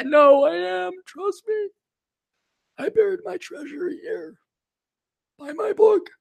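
very high, squeaky mocking voice; mock billionaire. Lost billionaire insisting he's real, high mock voice. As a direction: squeak it out like a silly huckster. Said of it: "That guy".

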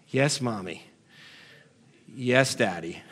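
low, quiet mock obedience; dutifully resigned, pitched well down; meek, submissive reply. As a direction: play a henpecked spouse giving in, low and soft. Meek spouse answering the nagging.

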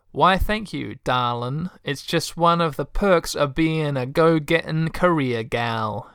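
sweet-talking Texan career gal; lightly put-on Texan hostess voice; Texan accent. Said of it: "a Texan accent".

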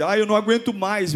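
a touch of exaggerated woe; mock self-pitying complaint. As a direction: mildly mimic someone playing the victim.

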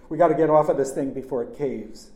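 loud, insistent call; urgent urging. A narrator's reading. Leading girl off failing roof, urgent. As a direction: push them to move now.

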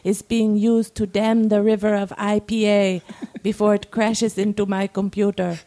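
measured reading with deliberate pauses; dramatic story reading. A narrator's reading. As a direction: read it aloud as a monologue, phrase by phrase. Reads a submitted story aloud.

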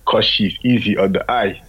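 lightly voiced thick Russian accent; a hint of a heavy Russian accent. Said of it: "he said it like this".

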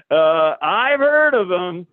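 slow, guarded, stretched words; wary, drawn-out reply. Retold or imitated. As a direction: hedge carefully, buying time.

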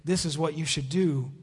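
softly voiced, slowed right down; a hushed, measured near-whisper, still voiced; God's gentle whisper. God quietly telling a listener what to do, gently hushed. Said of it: "if God whispers in this subtle silence".

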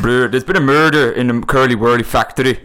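self-confessed bad Scottish accent; terrible attempt at a Scottish accent. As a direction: give the Scottish line a go. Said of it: "I'm terrible at Scottish".

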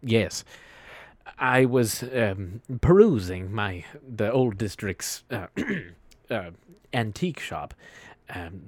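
measured, portentous character voice; slightly slow, formal delivery with weighty pauses; lightly voiced formal storyteller. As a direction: recount the theft with grave deliberation, pausing often. Continues character's account of theft.

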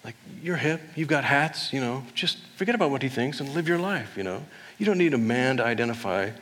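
lightly voiced sassy friend; sassy girlfriend pep talk. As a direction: hype up your girlfriend. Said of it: "saying, like".

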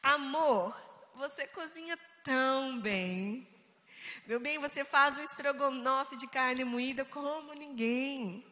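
playful affectionate compliments, stretched endings; good-humoured praise. Shown as a demonstration. Wife flattering husband for fun, good-humoured. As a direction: lay on the compliments with mock sweetness. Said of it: "Palavras de bom humor".

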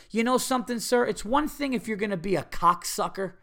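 imagined tirade. Pretend. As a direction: tear into the rude stranger. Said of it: "I wanted to find this guy and go".

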